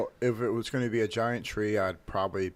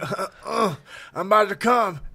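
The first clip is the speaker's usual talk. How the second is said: mock rapper voice; 12 semitones higher, 9 dB louder than usual. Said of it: "He's like".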